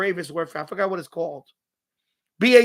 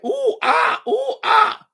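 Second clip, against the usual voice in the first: high, swooning mock "ooh, ah"; mocking fans cooing; 7 dB louder, much slower than usual. Streamer mocking a pottery stream's chat with high swooning coos. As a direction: coo like dazzled fans, hammed-up. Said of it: "And people were like".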